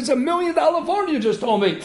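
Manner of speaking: high-pitched retold excitement; excited. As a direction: imitate an excited rabbi. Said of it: "so excited".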